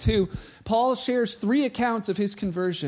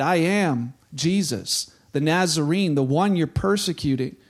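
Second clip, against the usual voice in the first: Jesus replying; 4 semitones lower than usual. Retold or imitated. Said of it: "And the voice replied".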